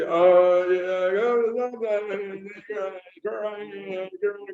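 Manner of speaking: mumbled, unintelligible country drawl trailing off; local man's country dialect. Retold or imitated. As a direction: imitate a thick rural local, words run together. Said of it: "This is the way he said".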